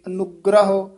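ਅਨੁਗ੍ਰਹ with a firm, doubled g; tight pronunciation. Shown as a demonstration. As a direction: press into the gr of ਅਨੁਗ੍ਰਹ. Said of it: "ਕਸ ਕੇ ਹੀ ਉਚਾਰਨ".

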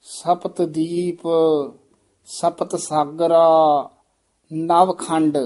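"ਸਪਤ ਦੀਪ", pause, "ਸਪਤ ਸਾਗਰਾ", pause, "ਨਵਖੰਡ", all slow; measured and slow, each phrase set apart. Shown as a demonstration. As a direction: read each part slowly, with a break between parts. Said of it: "ਧਿਆਨ ਨਾਲ ਪਾਠ ਉਚਾਰਨ".

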